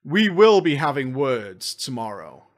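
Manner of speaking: slow menacing promise; mock threat. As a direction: threaten them, slowly. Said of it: "Oh, yes".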